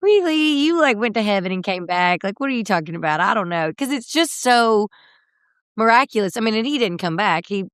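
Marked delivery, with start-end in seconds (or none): 0.0-3.7 sceptical disbelief. Retold or imitated. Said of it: "and you're like".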